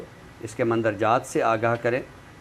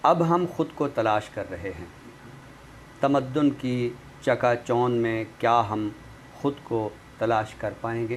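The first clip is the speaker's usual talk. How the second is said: poem recitation. Acted. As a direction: recite each image with weight and pauses. Recites a nazm on the show.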